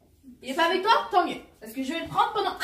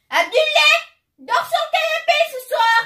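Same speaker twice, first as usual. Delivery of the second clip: higher, louder yell across the house; calling out; 6 semitones higher, 6 dB louder than usual. Acted. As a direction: call out to someone far off.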